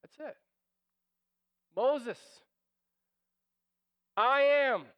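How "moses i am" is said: God answering the doubting Moses, loud and firm; booming declaration. Pretend. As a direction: say it louder and weighty.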